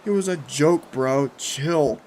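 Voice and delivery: loud dismissive giggly voice; giggling. A narrator's reading. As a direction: brush it off with a giggle. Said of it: "Jeff said through an annoying little giggles".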